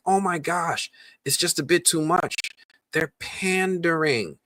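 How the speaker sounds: high-pitched fussy fan; mock complaint. Imitating fans upset by diversity, mock complaint. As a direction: whine it up high, stretching the last word.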